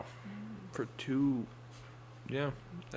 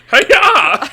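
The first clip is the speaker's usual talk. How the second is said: effortful strongman grunt; 11 semitones higher, 12 dB louder than usual. Acted. Strongman hoisting the coffin.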